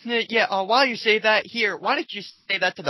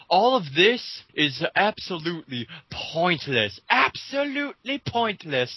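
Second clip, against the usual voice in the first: mock pompous; slower than usual. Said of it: "it continues by saying".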